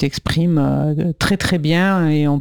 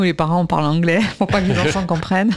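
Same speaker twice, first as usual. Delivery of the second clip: laughing; faster than usual. Real, not acted. Joking about parents' secret language.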